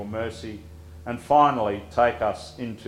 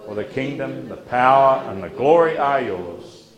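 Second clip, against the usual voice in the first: group recitation. Acted. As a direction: recite together with the congregation. Congregation prays Lord's Prayer aloud.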